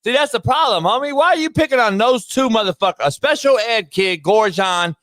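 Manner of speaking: high-pitched, heated scolding; indignant outrage. Real, not acted. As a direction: demand an answer, voice riding high with outrage. Real outrage at bullying a child.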